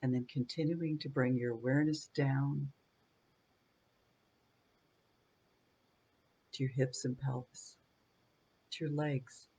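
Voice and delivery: calm meditation guide with long pauses between phrases; unhurried body-scan guidance, spaced out by silences; guided meditation. Real, not acted. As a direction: lead them gently through breath and body, leaving space after each phrase.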